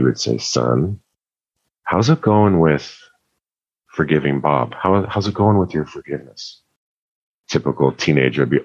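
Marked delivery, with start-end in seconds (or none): 0.4-6.6 a hint of a calm, gentle father asking; lightly voiced dad, patient and low-key; soft-spoken dad. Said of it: "He's a very soft-spoken man".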